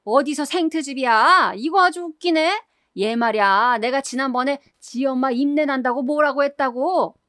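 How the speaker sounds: shrill angry outburst. Retold or imitated. Mother-in-law screeching back at her daughter-in-law, shrill furious yell. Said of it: "째지는 소리를 버럭 질렀고요".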